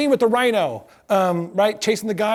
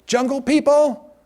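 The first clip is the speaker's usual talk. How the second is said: higher, slow radio voice; radio call; 6 semitones higher, slower than usual. Retold or imitated. New skipper calling in a derail on the radio, slow and high. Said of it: "all you hear is".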